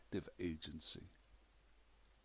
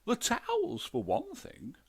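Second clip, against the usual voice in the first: very high, loud listing; aggrieved ghost wife; 6 dB louder than usual. A narrator's reading. Ghost wife lists complaints to the detective, high and loud. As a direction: reel off the grievance, high and loud.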